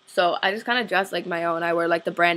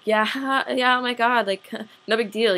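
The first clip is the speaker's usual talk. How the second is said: imitated polite laugh, higher pitched; awkward agreeing laugh; 3 semitones higher than usual. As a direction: laugh it off while being talked down to. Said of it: "It was like that for the whole hour".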